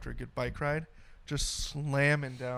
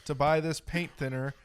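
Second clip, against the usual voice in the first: unenthusiastic ad read. Pretend. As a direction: plod through the sales pitch. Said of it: "lack of enthusiasm in that was just stellar".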